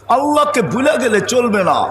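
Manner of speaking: ordinary talk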